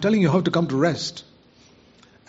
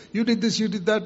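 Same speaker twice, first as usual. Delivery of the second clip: mock accusing devil; 6 semitones higher than usual. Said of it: "the devil will keep reminding you".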